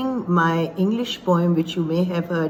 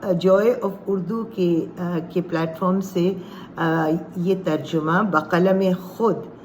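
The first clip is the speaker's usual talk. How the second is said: ordinary talk, nothing marked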